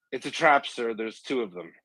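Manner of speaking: lightly voiced beaten soldier giving the punchline; struggling soldier in a joke. Joke's crawling soldier warning his general, mock urgency. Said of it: "He's crawling back and he gets to the general".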